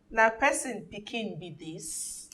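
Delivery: reading Nigerian Pidgin phrase. Shown as a demonstration. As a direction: Pidgin English, slow and deliberate. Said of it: "this one is in Pidgin English".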